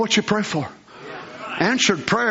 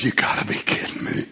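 scoffing whisper; 4 dB quieter than usual. Acted. Abraham laughing at God.

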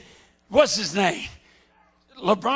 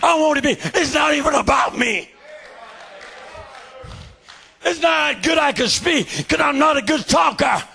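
shouted, driving sermon cadence; fiery preaching; 3 semitones higher than usual. Real, not acted. Preacher shouting his testimony to the church.

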